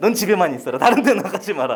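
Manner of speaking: loud, mock bossy husband voice.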